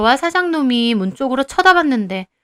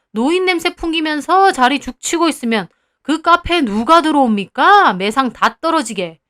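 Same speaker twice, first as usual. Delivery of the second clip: put-on brash, louder boss brushing off an old man; rude cafe owner; 3 semitones higher, 4 dB louder than usual. Cafe owner sneering at the old grandfather, louder and rude. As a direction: talk down to the customer.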